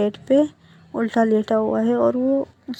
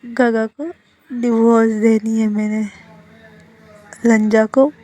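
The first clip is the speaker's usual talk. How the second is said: put-on sounding drunk; 3 dB louder than usual. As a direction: let the words drag and swell like a drunk. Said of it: "ऐसा sound कर रहा था जैसे उसने drink किया". (हल्का नशे में, खिंचे हुए शब्द)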